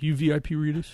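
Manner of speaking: 轻声模仿粉丝的盘问; pushy fan asking. Retold or imitated. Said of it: "and she's like".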